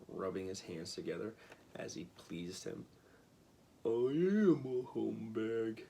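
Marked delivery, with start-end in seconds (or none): 3.8-5.8 admitting. A narrator's reading.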